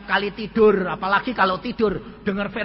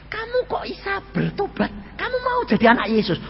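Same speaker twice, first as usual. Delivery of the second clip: high-pitched, incredulous questioning; astonished; 11 semitones higher than usual. Retold or imitated. Stunned husband asking his wife about repenting, astonished. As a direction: ask it in hammed-up shock. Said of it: "suami sampai melotot kaget".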